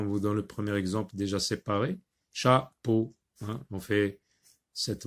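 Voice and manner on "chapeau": "Chapeau" as cha, short pause, peau; split into syllables. Shown as a demonstration. Teacher showing the example, "Chapeau" divided in two. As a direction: say "Chapeau" in two neat beats. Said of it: "Sépare les mots en syllabes".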